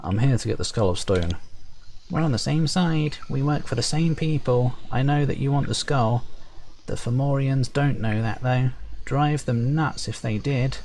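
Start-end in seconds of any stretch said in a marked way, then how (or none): 2.1-10.8 high, chummy sprite voice; perky high sprite. Acted. Sprite reassuring the player about the Fomorians, perky and high. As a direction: chirp it brightly, high up. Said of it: "perky, high-pitched voice".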